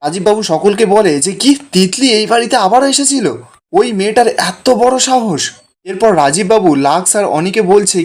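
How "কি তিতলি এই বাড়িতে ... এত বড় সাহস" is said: retold angry outburst. Father-in-law fumes at the family about Titli. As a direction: play the furious father-in-law in a lightly changed voice. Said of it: "রাজীববাবু তো খুব চিৎকার করছে".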